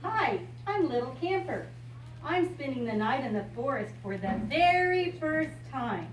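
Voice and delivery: bright storybook reading voice; reading to a child. Acted. Grandmother reading a picture book to a child, bright storybook voice. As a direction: read it out like a picture book for a little one.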